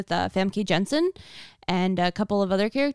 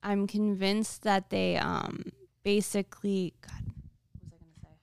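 trailing off; 8 dB quieter than usual. Real, not acted. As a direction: lose the thought and drift quiet. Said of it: "I lost my train of thought".

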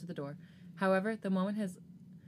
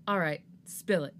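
mildly louder, irritated demand; annoyed tone; 4 dB louder than usual. Acted. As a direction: demand answers, fed up. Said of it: "in an annoyed tone".

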